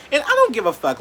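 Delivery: loud, high angry shout at the critic; furious call-out, pitch up; angry outburst. Real, not acted. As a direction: yell it straight at the person who came for you. Calling out a named follower.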